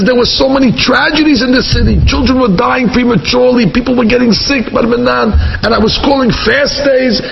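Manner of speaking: high-pitched retold dismay; agitated lament. A rabbi learns what his town has eaten, agitated lament.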